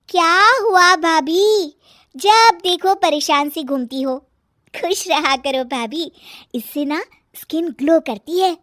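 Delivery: put-on high, carefree young woman needling; sister-in-law, teasing.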